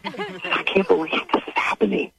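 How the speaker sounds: hushed, frightened whisper; real fear, breathed out; scared whisper. Real, not acted. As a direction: whisper so she can't hear. Hiding scared in closet.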